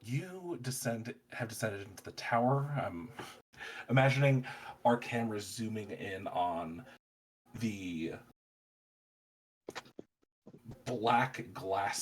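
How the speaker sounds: slow game master narration with long pauses; scene setting. Acted. Game master describing the tower to players, slow scene setting. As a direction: draw out the description in deliberate phrases.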